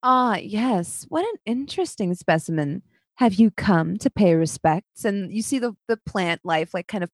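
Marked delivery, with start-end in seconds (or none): 0.0-5.0 lightly voiced silky villainess; spider lady. Spider lady greeting her visitors, mildly silky. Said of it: "and she says".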